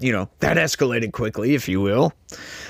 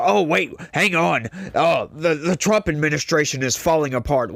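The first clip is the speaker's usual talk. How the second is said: mocking quote; 3 semitones higher than usual. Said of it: "Like, so".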